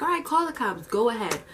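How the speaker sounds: high, fired-up retort; daring him to call the cops; losing it. Retold or imitated. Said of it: "that's when I completely lost it".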